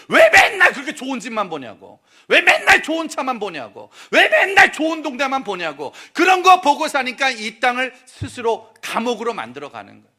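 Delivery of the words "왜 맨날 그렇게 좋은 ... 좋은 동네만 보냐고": louder, rising mock rant; exasperated complaint. Preacher mocking people who always envy nicer homes, loud rant. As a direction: vent the frustration.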